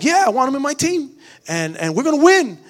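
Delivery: imitating a kid's eager comeback, loud and lifted; mock-boastful team captain; confident rallying cry. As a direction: push it out proudly to doubters. Son's defiant, confident reply retold.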